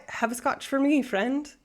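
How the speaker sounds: casual try at a Scottish lilt; Scottish accent. Acted. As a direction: put on a playful Scottish accent. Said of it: "that was a Scottish accent".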